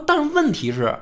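high-pitched mock protest, arguing his case; a cheeky official talking back to the emperor, pitched well up; indignant retort. Gao Yue arguing back to emperor.

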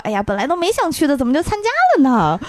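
卖乖. Retold or imitated. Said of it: "得了便宜卖乖".

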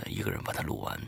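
ordinary delivery

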